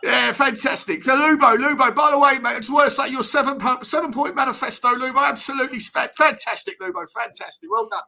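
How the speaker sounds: lightly voiced Harry, chummy old manager bigging himself up; a hint of Redknapp's patter; Harry Redknapp impression. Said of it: "Harry Redknapp, you smashed it".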